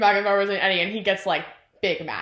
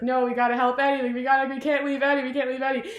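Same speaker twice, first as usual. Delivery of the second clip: higher, hurried, repetitive pleading; retold desperate plea; 4 semitones higher, faster than usual. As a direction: plead in a mild mock panic. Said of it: "he's, like, clinging to Eddie".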